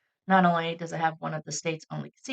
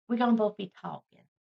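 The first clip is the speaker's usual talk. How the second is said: a slightly quicker, teasing imitation of a co-host; Fallon impression; 2 semitones higher, faster than usual. Host teasing the co-host about sharing the storytelling, light impression. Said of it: "That was my Fallon impression".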